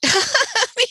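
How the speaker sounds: high bursting laugh of delight. Real, not acted. Reacting to the fake Trump call, bursting laugh. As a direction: cracks up at the impersonation.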